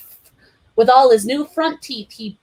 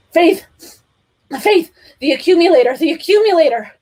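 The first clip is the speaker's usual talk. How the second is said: loud high shouting; loud high cry for Faith; urgent call; 9 semitones higher, 7 dB louder than usual. A narrator's reading. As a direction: call out in panic. Calling out in pain.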